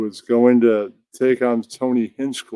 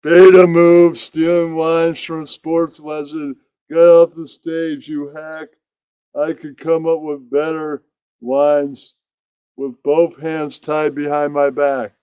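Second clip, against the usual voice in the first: Iron Sheik heckling; 3 semitones higher than usual. Acted. Iron Sheik heckles the comic from the crowd, mock scolding. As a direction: hammer the insults at the hack onstage. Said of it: "He goes".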